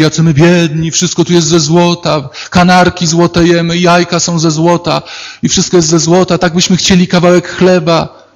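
mock lament. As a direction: whine like rich folk faking poverty. Golden people complain in story. (lekko udawany lament złotych ludzi)

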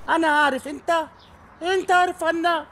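put-on broken Arabic with an English accent. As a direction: speak Arabic like an American. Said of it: "صار تحكي عربي مكسر".

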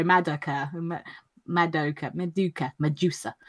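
Madoka drawn out syllable by syllable; slowed pronunciation. Shown as a demonstration. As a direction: say Madoka slowly, thinking it through. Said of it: "I go slower".

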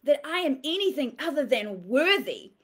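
mild demonstrated outrage; a touch of defiant anger; mock indignation. Shown as a demonstration. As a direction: show them how to sound offended. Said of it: "get angry and go".

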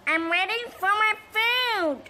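put-on high, whiny kid voice. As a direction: whine it in a put-on voice. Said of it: "why does your voice change all the time".

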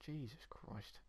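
breathless whisper of disbelief. Real, not acted. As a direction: whisper it under your breath. Shocked the game is so old.

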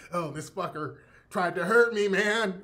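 imitating a sore actor griping; injured actor. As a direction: whine that he got hurt. Actor complaining, voiced.

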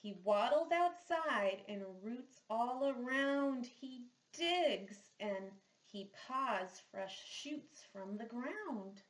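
put-on slow, gentle read-aloud for children; children's story narration; storybook reading. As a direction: read it like a picture book at story time. Reads picture book aloud.

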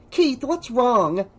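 put-on high, worried girl's voice; slow, high, anxious question; edged with panic. A narrator's reading. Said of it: "Panic edged her voice".

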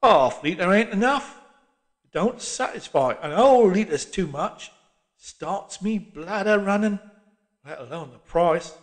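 put-on slow, complaining old man; grumbling old cockney. A narrator's reading.

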